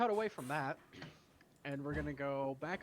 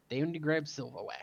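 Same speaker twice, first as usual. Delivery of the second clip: incredulous; 4 dB louder than usual. Acted. GM questions house guest errand.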